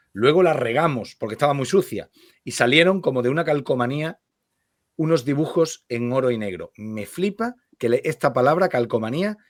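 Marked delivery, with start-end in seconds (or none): 0.1-6.7 measured literary read-aloud; lectura literaria. Acted. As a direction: read the story aloud with care, phrase by phrase. Lee en voz alta. (lectura literaria en voz alta)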